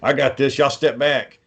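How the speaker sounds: lightly put-on country accent; a hint of country twang for the character. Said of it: "like, a country accent".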